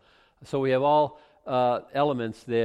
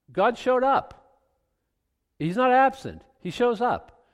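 emphatic preaching; 12 semitones higher, 5 dB louder than usual. Real, not acted.

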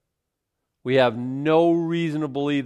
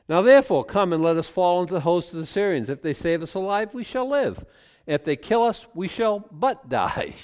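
lepers' resolve; 5 semitones higher than usual. Acted. Reads lepers' resolve aloud.

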